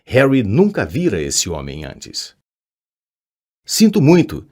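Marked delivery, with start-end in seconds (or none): 3.7-4.5 tremulous. A narrator's reading. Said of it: "disse trêmulo".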